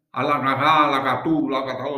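mock chant of made-up words, loud; imitated indigenous language. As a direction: imitate a foreign tongue, loud and rhythmic. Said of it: "eu tô só imitando como era o negócio". (imitação de língua indígena, alta)

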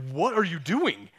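father yelling at son found hiding in bed; exasperated shout. Retold or imitated. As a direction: blurt it out as relief turns to anger. Dad finds hidden son under blankets.

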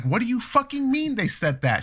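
high, outraged demand. Retold or imitated. Father asking his fiancée what the dentist said, outraged. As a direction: demand an answer, furious. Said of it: "And I'm like".

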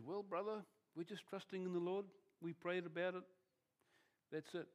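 a preacher poking fun at a falsely spiritual brother, smug and serene; mock pious calm. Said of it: "very spiritual about it all".

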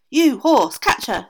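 loud screamed command; screaming aunt. A narrator's reading. Aunt screaming at the horse, loud command. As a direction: bark the order at the horse. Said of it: "screamed the aunt".

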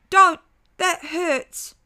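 high, loud yelp of pain; child cry of pain. A narrator's reading. Father in girl's body crying out to daughter, high yelp of pain. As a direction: cry out as she yanks your hair. Pulled by ponytail.

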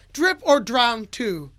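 slow, drawn-out mock yell. Fan greeting a rapper with his album name, mock yell. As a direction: stretch it out like a half-yelled fan shout. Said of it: "yelling his album name at him".

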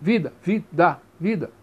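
vida with a lightly dropped da; vida, weak unstressed da; light final syllable. Shown as a demonstration. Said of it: "é pronunciada bem levemente".

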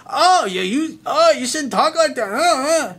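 high, loud mock of an offended girl; mocking a prissy woman. Coach imitating a girl scolding his swearing, high mocking voice. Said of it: "and she's like".

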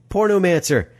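high-pitched relish of a new swear; boyishly enjoying a naughty word; savoring the word. Acted. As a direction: roll the word around with glee. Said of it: "Seth rolled the word around in his mouth".

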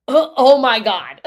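laughing stunned oh my God; shocked gasp. Retold or imitated. Woman hearing a steep price, laughing in disbelief. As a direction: blurt it out, half laughing in shock.

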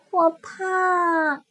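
high, small cub voice; a timid little cub; little bear voice. Acted. Little bear answers big bear.

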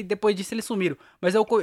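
ordinary talk

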